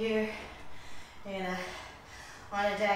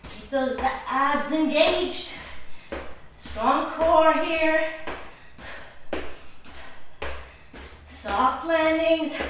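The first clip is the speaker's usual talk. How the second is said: slow coaching shout; 4 semitones higher, slower than usual. Real, not acted. Instructor urging core.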